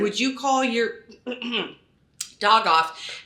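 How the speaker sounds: measured, slow command put as a question. Retold or imitated. Former cop telling a stranger about his dog, commanding. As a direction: order it like an ex-cop, without shouting. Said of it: "in a very commanding voice".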